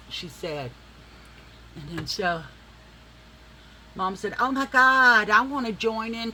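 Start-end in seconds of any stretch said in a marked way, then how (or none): 4.4-6.3 excited mom. Retold or imitated. Mom eager to join fashion show.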